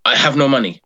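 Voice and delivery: lightly put-on Eastern European accent. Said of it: "I have to put the accent on".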